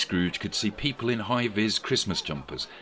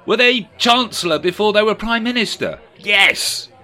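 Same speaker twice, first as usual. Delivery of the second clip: very high, loud questioning voice; high party guest voice; 13 semitones higher, 9 dB louder than usual. A narrator's reading. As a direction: pipe up eagerly.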